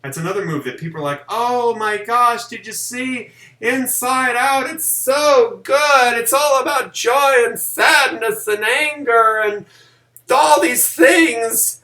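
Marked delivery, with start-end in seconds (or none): 1.3-11.8 high, loud, slow mock gushing; silly gushing voice. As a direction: ham up a gushing fan voice. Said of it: "why are you using that voice".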